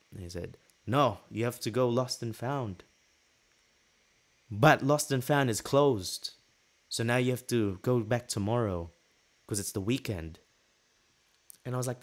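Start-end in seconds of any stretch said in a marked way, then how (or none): 0.8-10.4 lightly attempted Norwegian accent; rough, emphatic mock Norwegian accent. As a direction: imitate a Norwegian guard laying out the rules. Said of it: "in his Norwegian accent".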